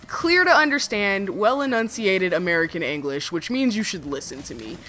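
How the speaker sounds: imitating a careful, over-enunciated speaker; lightly mock someone trying to sound educated; measured, mock-articulate delivery; mock well-spoken. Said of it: "trying their damnedest to sound as well-spoken".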